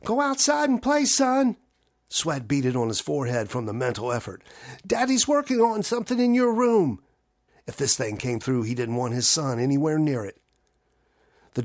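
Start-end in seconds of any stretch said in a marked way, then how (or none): 0.0-7.0 high, loud urgent shouting to his son; strained loud call. Acted. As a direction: call out, holding panic back.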